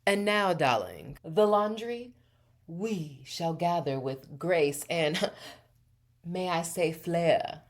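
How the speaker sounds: lightly put-on British elegance, giggle breaking in; stately, playful mock-British narration; elegant British accent. Shown as a demonstration. Host narrating the laundry as a grand affair, elegant British accent. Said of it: "in a silly or elegant voice. British accent".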